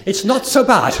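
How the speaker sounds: put-on retrying the German accent through a laugh. German leader answering the sister, laughing German accent. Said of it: "I can't do the accent".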